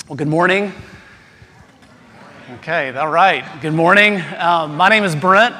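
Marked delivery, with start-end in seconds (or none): 3.6-4.2 louder greeting. Real, not acted. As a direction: call out good morning to the room. Repeats greeting to get response.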